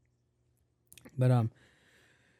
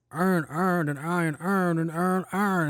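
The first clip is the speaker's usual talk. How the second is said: higher-pitched mock Baltimore accent; imitated Baltimore accent; 5 semitones higher, slower than usual. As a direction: mimic Baltimore speakers fumbling the word. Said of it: "those dudes in Baltimore were failing that shit".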